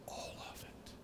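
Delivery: whispered emphasis. Real, not acted. Preacher pressing the congregation to confess, whispered. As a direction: lean in and breathe it out.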